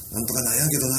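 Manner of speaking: なんとかなんやけどな with the Kansai やけどな ending, lightly done; a friendly hint of Kansai dialect; Kansai speech. Fan wishing the guest spoke Kansai in Osaka, light Kansai accent. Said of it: "大阪に来た時は".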